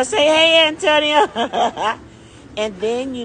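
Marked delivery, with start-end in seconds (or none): 0.0-2.0 calling out. Real, not acted. Vlogger hailing Antonio nearby, called out loud. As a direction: call across high and loud.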